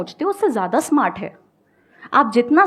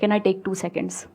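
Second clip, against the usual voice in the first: polite request; 3 semitones lower, 4 dB quieter, much slower than usual. Shown as a demonstration. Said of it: "बोल दो".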